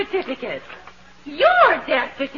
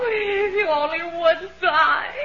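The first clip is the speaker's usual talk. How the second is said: tearful. Acted. Wife weeping, secretly glad.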